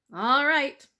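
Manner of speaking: a lightly voiced sly weasel; gangster-ish weasel saying see. Weasel doubting the mouse, a hint of menace.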